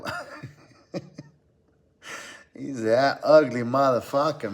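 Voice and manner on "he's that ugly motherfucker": put-on light Brazilian accent, Moicano-style; a hint of a Brazilian accent, imitating a fighter. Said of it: "In that Brazilian accent".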